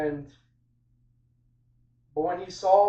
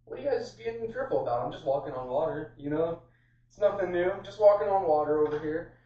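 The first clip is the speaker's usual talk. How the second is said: casual Jesus; 2 semitones higher than usual. Retold or imitated. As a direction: play it as no big deal, pitched up at first. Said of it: "and he's like".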